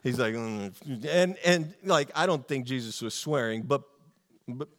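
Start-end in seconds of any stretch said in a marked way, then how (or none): 0.3-1.0 low, muted angry "mm"; wordless grunt of held-in anger; fuming grunt. Retold or imitated. Preacher imitates Jesus watching the merchants, quietly fuming. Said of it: "and he's fuming".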